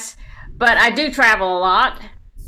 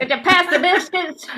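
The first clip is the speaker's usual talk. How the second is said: mock Italian accent; 9 semitones higher than usual. Southern talk at Thanksgiving.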